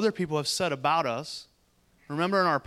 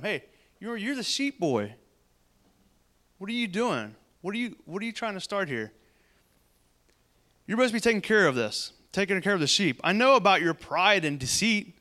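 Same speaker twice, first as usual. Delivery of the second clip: higher-pitched big-brother nagging; scolding reminder; 3 semitones higher than usual. Acted. Older brother reminding David he is the sheep boy, scolding. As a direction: needle him as the belittling older brother. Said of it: "he's reminding him".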